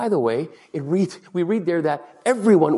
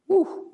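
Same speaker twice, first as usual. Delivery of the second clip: brief high-pitched "woo"; high whoop. Real, not acted. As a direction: let out a short, high whoop. Exclaims after rallying the congregation.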